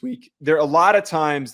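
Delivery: real accidental crack in the voice. Real, not acted. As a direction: voice cracking mid-phrase. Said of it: "that was a bad voice crack".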